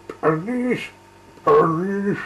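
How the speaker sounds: high, loud alarm call; shouting. Acted. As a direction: yell it for the police. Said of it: "shouted ... at the top of their voices".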